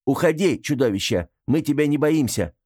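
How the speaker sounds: high, cracking brave cry; scared girl yells at the monster behind the door, trembling; trembling shout. Acted. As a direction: shout it though your voice shakes. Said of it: "срываясь и дрожащим голосом, выкрикнула".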